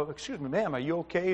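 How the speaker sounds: soft, low-key check on a stranger; retold careful, quiet question; gentle concern. Gently approaching a shaking stranger.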